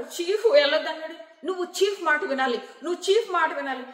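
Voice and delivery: retold loud insistence on obeying the chief; insisting loudly. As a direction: push it like laying down the rule. Aditya insisting the chief be obeyed.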